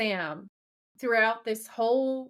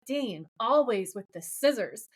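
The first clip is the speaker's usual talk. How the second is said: lightly acted mockery at usual volume; mocking. Host quoting Sam teasing Dean over rock paper scissors, mocking. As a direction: imitate a mild brotherly taunt. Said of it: "Sam mocks him and is like".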